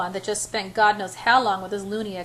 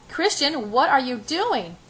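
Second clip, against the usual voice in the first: high, slow, louder repeated question; high-pitched; 4 semitones higher, 4 dB louder, slower than usual. A narrator's reading. Anna questioning motionless Christian, high-pitched and panicky. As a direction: stretch each word out, high and alarmed. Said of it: "I repeat in a high-pitched voice".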